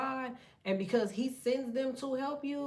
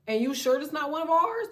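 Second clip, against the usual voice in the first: suspicious spirit; 6 semitones higher, 6 dB louder than usual. Retold or imitated. Spirits questioning each other.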